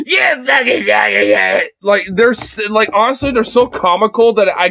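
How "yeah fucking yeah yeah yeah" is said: high-pitched parody yelling; mocking ranting weirdo. Streamer mocks the weirdos, high yelling caricature. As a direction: spoof a worked-up ranter. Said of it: "these fucking weirdos that wanna be like".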